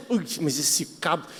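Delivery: low, soft muttered complaint; quiet mock annoyance; grumbling under breath. Worker fiddles with the loose tool handle, grumbling quietly.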